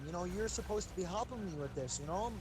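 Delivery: mildly puzzled innocent caller; feigned innocence. Retold or imitated. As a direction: play dumb, lightly confused. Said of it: "I acted innocent".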